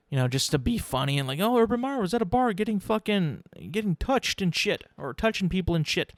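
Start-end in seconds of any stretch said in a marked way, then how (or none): 1.4-6.1 mock gossip. Mimicking jokers spreading the bar rumour.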